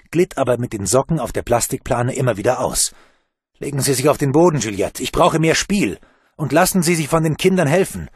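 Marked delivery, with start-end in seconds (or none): 3.6-8.1 urgent commands. Acted. Bruno urgently directs from pit.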